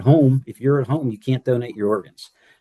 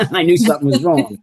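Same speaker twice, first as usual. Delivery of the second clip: higher-pitched, laughing recollection; amused laughing; 5 semitones higher, 4 dB louder, faster than usual. Real, not acted. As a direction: say it through a laugh. Joking about wife's looks.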